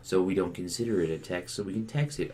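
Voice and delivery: a utility company brushing off the customer; smug official. Retold or imitated. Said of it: "And they go".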